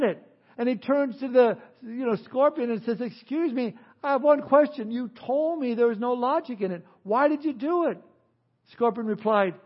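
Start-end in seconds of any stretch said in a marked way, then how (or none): 3.0-8.0 trickster tale voices. Acted. Tortoise asks dying question.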